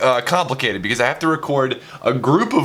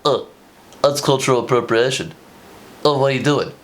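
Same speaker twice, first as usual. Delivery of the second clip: mock outraged critic. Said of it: "people to call me out".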